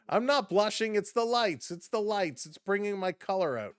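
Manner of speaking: high, loud flustered denial; playful protest. Real, not acted. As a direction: protest the teasing, voice shooting up. Denies blushing to teasing viewers.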